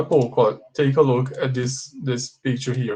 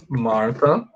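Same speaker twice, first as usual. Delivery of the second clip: slow model sentence; slower than usual. Shown as a demonstration. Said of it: "here you can see the difference".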